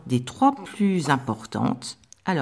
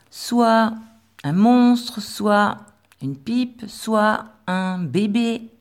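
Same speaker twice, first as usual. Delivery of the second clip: a little higher and louder, listing monstre, pipe, bébé; playful lesson; 4 semitones higher, 4 dB louder, much slower than usual. Shown as a demonstration. Teacher making the spelling rule playful for children. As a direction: make the letter rule a fun game. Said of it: "derrière, on a".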